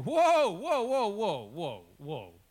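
hammed-up panicked stop, dying away; imitating a startled protest that trails off; alarmed whoa. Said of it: "they go".

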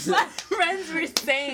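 words through laughter; breathless from laughing; after laughing hard. Real, not acted. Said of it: "I can't even stop".

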